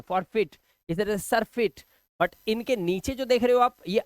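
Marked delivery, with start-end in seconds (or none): 0.0-1.8 forfeit and surfeit ending in "feet"; ee sound. Shown as a demonstration. Teacher pairing forfeit with surfeit, ee sound. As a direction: clear ee in the last syllable of forfeit and surfeit. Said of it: "यहाँ पे ई की आवाज आ रही है".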